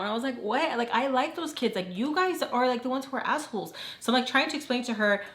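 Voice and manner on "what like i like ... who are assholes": higher-pitched retold indignation; kinda freaking out. Teller defending the kids to her friend, freaking out. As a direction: push back in a higher voice, mildly freaked out. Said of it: "I was kinda freaking out".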